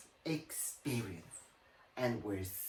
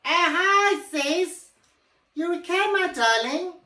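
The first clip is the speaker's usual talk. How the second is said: posh lady voice; 13 semitones higher, 6 dB louder than usual. Acted. Character greets sister sweetly, high.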